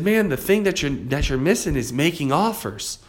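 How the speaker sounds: put-on Southern accent. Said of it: "he had a little Southern accent".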